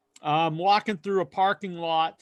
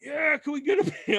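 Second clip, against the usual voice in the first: giggly request; 10 semitones higher than usual. Retold or imitated. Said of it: "she's like".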